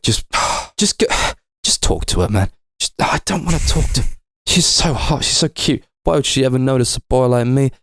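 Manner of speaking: high, sighing nervous self-pep talk; a bashful guy trying to work up the nerve; shy lovesick man. Retold or imitated. Lonely survivor psyching himself up to talk to a mannequin, high and bashful. Will Smith's character talks himself up.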